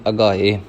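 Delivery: ਅਗਾਏ with a voiced g, a-gaa-ey; g sound. Shown as a demonstration. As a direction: blend the middle of ਅਗਾਏ into a g. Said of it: "ਗੱਗੇ ਦੇ ਨਾਲ". (ਅਗਾਏ ਨੂੰ ਗੱਗੇ ਨਾਲ mix ਕਰ ਕੇ)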